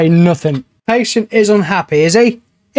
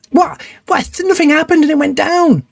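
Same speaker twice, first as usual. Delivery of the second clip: outraged disbelief; 11 semitones higher than usual. Real, not acted. Cure rate drops for no reason.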